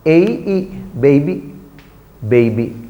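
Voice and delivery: put-on "baby" built from its gliding ay and final ee; careful model of baby with an ay glide; sounding out. Shown as a demonstration. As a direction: sound out A, E, then "baby" with the diphthong. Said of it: "So A should be there".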